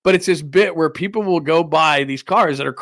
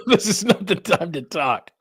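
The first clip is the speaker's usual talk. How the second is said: laughing imitation; 4 semitones higher than usual. Echoes the played clip, laughing.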